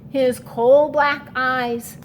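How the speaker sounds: put-on lively read-aloud for children; story narration. Teacher reading aloud to her class, lively rhyming read-aloud. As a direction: read the rhyme to young kids. Reads a rhyming picture book.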